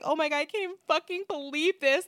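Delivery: put-on upset disbelief; mock crying outrage. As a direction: imitate someone making a tearful scene. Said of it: "crying. It's, like, a whole thing".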